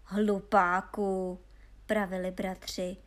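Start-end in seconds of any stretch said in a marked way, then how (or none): 0.0-1.4 slow, drawn-out put-down; weary scorn for a fool; scornful name-calling. A narrator's reading. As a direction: stretch the insult out with disdain. Brothers scorn foolish Honza.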